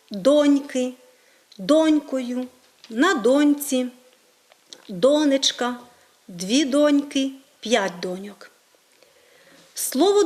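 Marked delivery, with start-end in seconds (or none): 0.1-7.3 доньки, донькою, доньці, донечка each stressed on ДО; stress on first syllable. Shown as a demonstration. Teacher listing correct forms, stress on the first syllable. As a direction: hit the first syllable in every form of донька. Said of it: "ми маємо наголос на першому складі".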